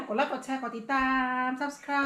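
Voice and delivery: slow. Real, not acted. Slow drawn-out outro.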